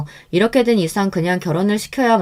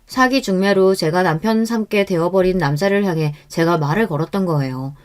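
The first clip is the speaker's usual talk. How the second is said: plain reading voice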